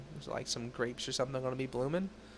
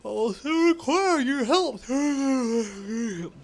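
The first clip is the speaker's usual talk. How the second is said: measured, serious investigator tone; stern Inquisitor voice; 3 semitones lower than usual. Acted. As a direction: read it like a grave inquisitor. Reads Inquisitor NPC dialogue.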